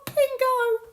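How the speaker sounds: high, loud laugh into an exclamation; triumphant laughter. Real, not acted. Tarot reader getting her answer from the cards, laughing triumphantly.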